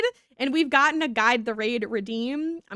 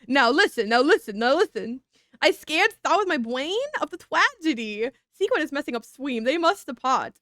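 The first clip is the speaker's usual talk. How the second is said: silly character voice; 3 dB louder than usual. Acted. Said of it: "that was the voice that I chose".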